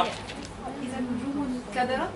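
إذا النجوم انكدرت drawn out slowly, rising on انكدرت; slow careful recitation. Shown as a demonstration. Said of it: "ها؟".

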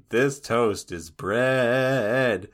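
slow, dry, deliberate delivery; slow deadpan quote. Retold or imitated. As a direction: drag it out deadpan. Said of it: "and he's like".

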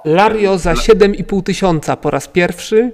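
going once, going twice, sold; auctioneer. Acted. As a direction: bang the hammer and close the sale. GM closes the sale.

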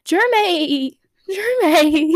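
a lightly voiced tearful cry of the name; mock crying call. Fan imitating Elena crying over Jeremy. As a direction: wail his name, half in jest. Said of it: "I heard the weak in her voice".

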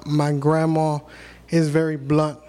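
ordinary talk

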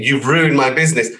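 mild mock yell; retold screaming. Retelling the client's phone rant, mild mock screaming. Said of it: "shouting, screaming".

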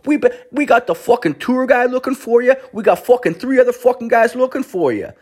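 hammed-up big boss telling him off; scolding boss. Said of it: "He's like".

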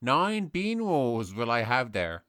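put-on slow, solemn Sligo-accented poet reciting. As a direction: intone it like Yeats in a Sligo lilt. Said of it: "whatever I do is perfect Sligo".

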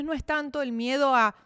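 ordinary talk, nothing marked

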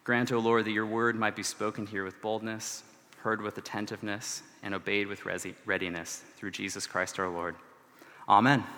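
low, soft prayer, falling away at line ends; soft public prayer; spoken prayer. Real, not acted. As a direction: pray quietly and solemnly. Leads the congregation in prayer.

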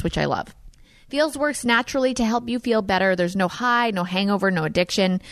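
smooth, scripted sponsor read; podcast ad read. Acted. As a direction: read the sponsor copy in a friendly, measured way. Reads a sponsor ad.

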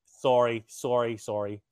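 repeated sorry with a Canadian vowel. Shown as a demonstration. Host showing his co-host his apology, Canadian accent. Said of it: "you do the Canadian sorry".

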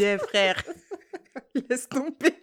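talking through laughter; amused, words breaking into giggles; cracking herself up. Real, not acted. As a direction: laugh helplessly at yourself while telling it. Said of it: "je me fais rire".

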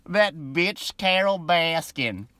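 slow, breathy whisper of the line; whispered mock Southern accent. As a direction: hush it like a secret insult. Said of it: "I can't even say it with a straight face".

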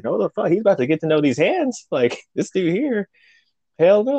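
high-pitched, riled-up refusal; retold indignation. New guy refusing to befriend him, indignant. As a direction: protest high, half joking about a fight.

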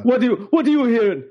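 mock mom. Mocking his friend's mom.

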